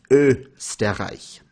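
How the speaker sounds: Österreich slowly, starting on rounded "euh"; Österreich with a drawn-out umlaut O; German pronunciation. Shown as a demonstration. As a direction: say Österreich as "EUH-ster-reich". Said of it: "It is pronounced".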